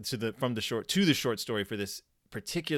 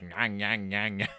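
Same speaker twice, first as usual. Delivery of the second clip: nasal-sounding nonsense creature noise; imitated puppet noise; 2 semitones lower than usual. Describing the giant rat puppet to co-host, imitated puppet noise. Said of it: "it's so just like".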